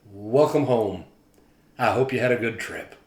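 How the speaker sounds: a hint of a friendly official's welcome; lightly voiced greeter. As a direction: greet each traveller warmly, in a light take on his voice. Voicing the friendly customs greeter.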